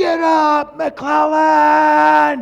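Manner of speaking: piercing, very loud, very high scream. Retelling shouting at a daughter lying on the field: retelling a scream. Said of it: "I just scream out as loud as I can".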